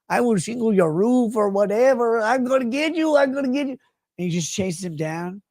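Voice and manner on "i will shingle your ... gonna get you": a higher put-on voice, light and eager; a hint of a cheerful guy chasing someone down; lightly voiced chaser. Voicing the Mexican on the treadmill.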